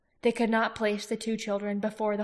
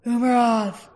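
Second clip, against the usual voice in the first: crying out; 3 semitones higher, 9 dB louder, slower than usual. A narrator's reading. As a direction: call out in alarm. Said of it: "they cried out".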